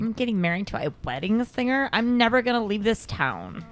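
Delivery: put-on Valley girl voice. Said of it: "I'm giving her this voice on purpose".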